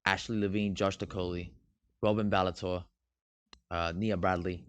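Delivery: understated fake British accent; a hint of put-on British. Shown as a demonstration. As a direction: read the names in a lightly British accent. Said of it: "I say it in a British accent".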